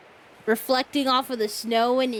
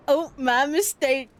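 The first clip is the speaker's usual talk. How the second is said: louder, higher, drawn-out mock apology; mimicked apology; 4 semitones higher, 4 dB louder, slower than usual. Player mimicking the game character's apology, drawn-out mock voice. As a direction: echo it slowly in a mocking character voice.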